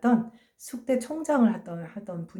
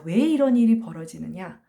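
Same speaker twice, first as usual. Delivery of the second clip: ordinary talk, nothing marked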